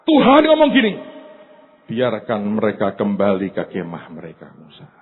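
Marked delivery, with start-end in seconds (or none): 1.9-4.9 low, soft steady command; low, soft firm instruction; quiet command. Acted. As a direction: say it low and intimate.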